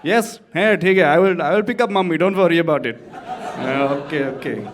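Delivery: hammed-up South Asian phone voice; dutiful son in a put-on South Asian accent; brown accent. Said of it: "I switch to a brown accent".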